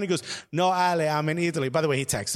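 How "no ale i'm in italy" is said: put-on a light Italian accent on the owner's text. Shop owner replying from Italy, light Italian accent. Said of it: "There's no reason for me to have an accent".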